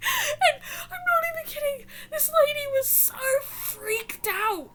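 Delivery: breathless laughing narration; laughing while talking. Real, not acted. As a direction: fight through the giggles to say it. Laughing through the story.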